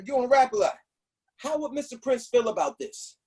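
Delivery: a cop leaning on him, voice pushed up; harassing cop. Retold or imitated. Cop hassling the rapper, mock tough cop. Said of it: "And he's harassing".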